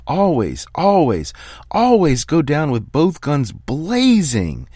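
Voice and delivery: a calm man finally coming apart, yelling at his player; screaming coach. Acted. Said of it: "then starts screaming".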